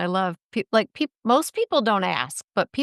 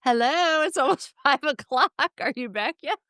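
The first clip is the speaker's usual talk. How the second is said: chirpy mock text voice; 7 semitones higher than usual. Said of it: "and said".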